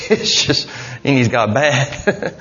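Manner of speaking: chuckling through the words, slowed down; amused, words breaking into laughter; laughing. Real, not acted. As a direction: laugh it out about the awful boss. Laughing at heathen boss.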